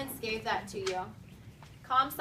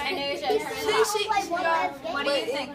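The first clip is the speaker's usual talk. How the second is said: raised, slowed stern command; sharp reprimand; 4 semitones higher, 7 dB louder than usual. Real, not acted. Teacher telling Asia to turn it off, loud and stern. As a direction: cut off the distraction firmly.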